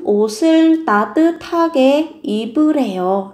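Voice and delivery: 옷을 linked into 따뜻하게 as "osɯl"; linked pronunciation. Shown as a demonstration. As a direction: run 옷을 따뜻하게 smoothly, final consonant carried over. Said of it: "nối âm lên". (nối âm 옷을 sang âm tiếp theo)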